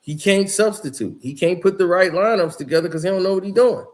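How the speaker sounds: retold angry complaint about the coach; retold going off. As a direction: go off on someone, half-strength. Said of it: "he went off basically on Ty Lue".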